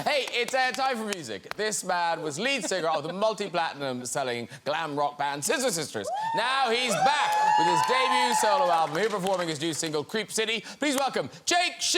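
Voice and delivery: announcer building to the guest's name; talk-show introduction. Real, not acted. Host introduces musical guest.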